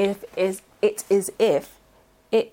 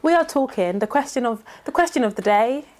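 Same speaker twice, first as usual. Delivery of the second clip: relaxing chilled voice. Pretend. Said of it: "my relaxing, chilled voice".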